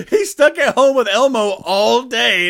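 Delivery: high-pitched laugh through the words; can barely get it out for laughing. Real, not acted. Cracking up at headline.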